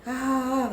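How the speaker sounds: high, drawn-out mock "ah"; imitated mocking laugh. Spirit laughing at the teller with eyes shut, mock jeer. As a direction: let out a high, jeering "ah". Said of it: "Tapi ketawa, ngetawain saya".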